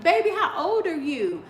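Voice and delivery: laughing mock scold; teasing laugh. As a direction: tease her through a laugh.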